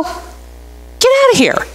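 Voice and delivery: high, slow, drawn-out mock yell; stretched high exasperated cry; retold yell at neighbor. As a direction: shoo the neighbor off, voice way up. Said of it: "I go".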